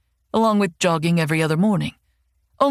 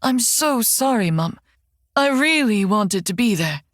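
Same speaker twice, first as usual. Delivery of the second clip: fake sorrowful; 3 semitones higher than usual. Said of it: "Making sure to sound extra sorrowful".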